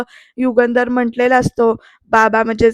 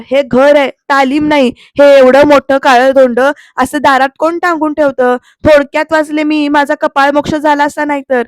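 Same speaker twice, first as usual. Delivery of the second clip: louder, indignant scolding; angry scolding; 4 dB louder than usual. Retold or imitated. Aarti scolding Pruthvi after the bag hit her, angrily. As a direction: tell him off for the hanging bag.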